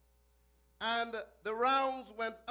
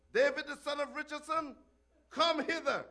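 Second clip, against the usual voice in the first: calling; 4 semitones higher than usual. Acted. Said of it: "the king calleth".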